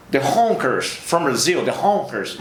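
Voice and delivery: drawn-out Texan drawl on Honkers; Texan accent. Retold or imitated. Texan presenter announcing a band from Brazil, Texan accent. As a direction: stretch HONKERS like a Texan host. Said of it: "no Texas a galera fala mais assim".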